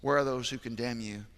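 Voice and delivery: hushed and tender. Acted. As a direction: drop to a hush for the words of Jesus. Quiet, tender retelling of Jesus.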